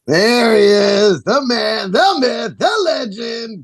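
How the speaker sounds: slow, drawn-out announcer build-up; hype introduction. Acted. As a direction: announce him like a champion. Hyping up guest Don.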